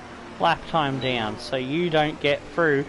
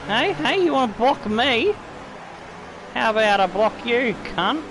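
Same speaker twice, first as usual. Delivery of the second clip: taunting challenge; 5 semitones higher than usual. Real, not acted. Taunting blocking rival.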